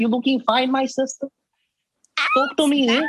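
high South African flirt; South African accent. Retold or imitated. Complimenting a woman in a high South African accent. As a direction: lift it up high with a Cape Town swing. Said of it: "so, South African?".

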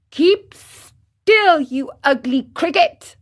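put-on high, loud furious boy; angry cry. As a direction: snap at the cricket in a rage. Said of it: "cried Pinocchio".

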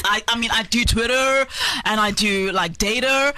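hammed-up twang in the English accent; private-school English twang. Shown as a demonstration. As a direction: show off an English twang on "Twitter" and "data". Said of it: "You can hear my parents pay for the twang".

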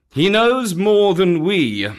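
high, loud, rattled panther; trembling. Acted. Panther admitting the python's power, trembling. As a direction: speak up in lingering alarm.

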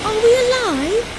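high, shaky-toned question after landing; boy after a rough landing, high and stunned; dazed boy. A narrator's reading. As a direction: ask in disbelief you survived. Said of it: "asked Gabriel".

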